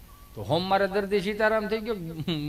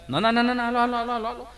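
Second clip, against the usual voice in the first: hurried insistence; 4 semitones higher, faster than usual. Retold or imitated. Compounder hustling.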